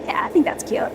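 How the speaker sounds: soft unvoiced whisper. Real, not acted. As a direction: whisper it to chat. Chatting with viewers, whispered reply.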